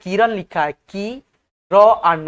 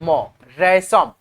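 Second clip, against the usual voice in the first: slow spelling; 4 semitones lower, much slower than usual. Shown as a demonstration. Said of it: "उसके बाद से".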